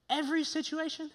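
high, questioning mock disbelief; incredulous. Preacher challenging Paul on his demand, incredulous. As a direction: query it as if it asks too much.

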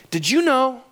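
high-pitched imitation of an eager kid; big wide-eyed question, acted; fired-up son. Son springing a discovery on dad, fired up. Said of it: "He was so fired up".

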